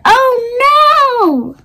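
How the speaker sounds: high sudden oh no; dismayed cry. A narrator's reading. Friend sees the head stuck in the mud, high dismayed cry. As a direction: gasp it out in dismay.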